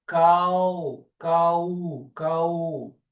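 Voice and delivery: cal with the final L turned into a U glide. Shown as a demonstration. Teacher shows the common Brazilian habit, L as U. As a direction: say cal like cau, ending on an U sound. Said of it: "comumente pronunciamos".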